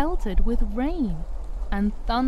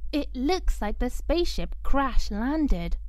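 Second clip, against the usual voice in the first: put-on girl's voice; 3 semitones higher than usual. Coco's voice.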